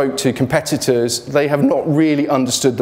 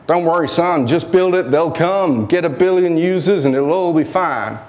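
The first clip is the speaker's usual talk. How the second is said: put-on American accent; 4 semitones higher than usual. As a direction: play a breezy US investor in an American accent. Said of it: "Is that a good American accent?".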